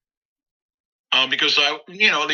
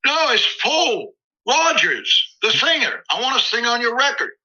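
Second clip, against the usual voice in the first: A singer's voice; 11 semitones higher than usual. Retold or imitated. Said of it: "And he goes".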